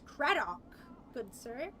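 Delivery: a hint of a high-voiced man calling. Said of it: "he calls out in a high voice".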